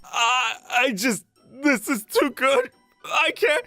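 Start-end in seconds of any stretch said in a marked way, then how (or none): 1.6-3.6 barely coping with joy; overwhelmed. Acted. Fan faced with idol's breakfast, overwhelmed. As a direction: overcome with delight, pitch climbing.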